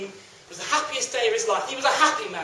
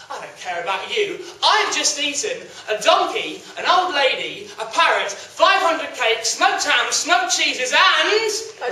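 arrogant; slower than usual. Acted. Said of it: "so full of himself and so arrogant".

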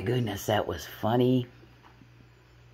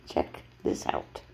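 cat's voice; slower than usual. Acted. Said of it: "And Gucci says".

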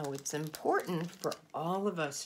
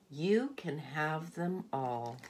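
generous offer; slower than usual. Acted. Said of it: "Mister Panda says".

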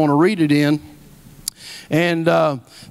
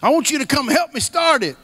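imitating Paul; 7 semitones higher than usual. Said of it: "that's how he talks".

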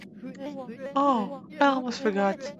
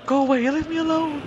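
shout; 5 semitones higher, 5 dB louder than usual. Acted. Yelling at the character.

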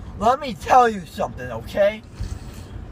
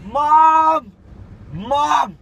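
calling out; 4 semitones higher, 4 dB louder than usual. Real, not acted. Calling mother from the back seat.

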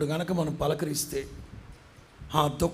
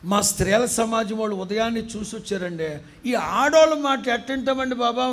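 scoffing disciples; 5 semitones higher, 3 dB louder than usual. Acted. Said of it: "వాళ్ళిద్దరు అంటారు".

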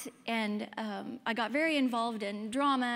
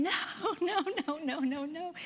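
mom screaming and crying; 6 semitones higher than usual. Retold or imitated. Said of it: "she just started screaming and crying".

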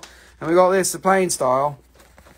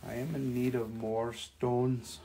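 much softer, mock-ominous murmur; host murmuring a greedy line then laughing at himself; spooky low murmur; 3 semitones lower, 11 dB quieter than usual. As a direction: hush it like a creepy collector. Dramatic whisper, then laughs at himself.

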